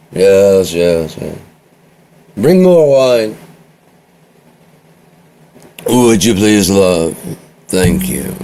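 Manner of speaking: condescend to the servant like a pampered noble; snooty aristocrat. Acted. A lord looks down on a peasant servant, mildly haughty.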